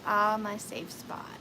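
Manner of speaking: slow, soft contented sigh; daughter's words again, tender; soft quoted child. Retold or imitated. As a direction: let it out gently, slowly. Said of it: "she just".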